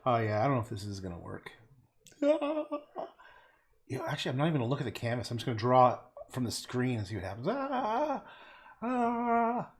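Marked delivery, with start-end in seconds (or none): 2.2-2.7 short high ahh; saying ahh. Pretend. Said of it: "I'm making the ah sound". 7.5-9.7 high drawn-out ahh cries; saying ahh. Pretend. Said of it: "I'm making the ah sound".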